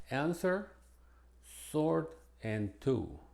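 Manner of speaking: answer, sword and two said with no w; silent w demo. Shown as a demonstration. Teacher demonstrating three words with a silent w. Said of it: "en estas tres es muda".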